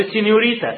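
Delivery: proud, careful Spanish سينيوريتا; Spanish pronunciation. Retold or imitated. Student reading to the teacher: careful Spanish سينيوريتا. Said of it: "يعني برافو".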